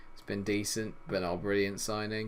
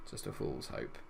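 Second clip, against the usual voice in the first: low, soft mutter; 8 semitones lower, 8 dB quieter than usual. Real, not acted. Self-pitying aside.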